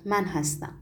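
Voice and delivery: small, soft reply; weak voice. A narrator's reading. Seated man admitting he is on the committee, in a weak voice. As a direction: answer feebly, barely putting it out. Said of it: "مرد با صدای ضعیف گفت".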